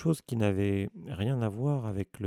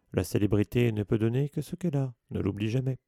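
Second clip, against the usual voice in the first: louder, lofty advice; pompous lecturing; 4 dB louder than usual. Acted. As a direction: lecture him as a celebrity. Lockhart's pompous maxim.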